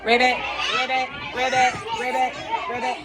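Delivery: bouncy croaking ribbits; frog voice. Shown as a demonstration. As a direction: ribbit along as you hop. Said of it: "Make a frog noise while you hop".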